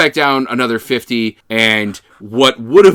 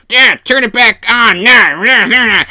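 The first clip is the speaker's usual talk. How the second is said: panicked scientists; 10 semitones higher, 6 dB louder than usual. Retold or imitated. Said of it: "everyone's like".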